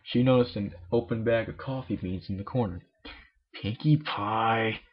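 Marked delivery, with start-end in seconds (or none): 3.5-4.8 growled. Acted. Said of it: "Miss Cake growled".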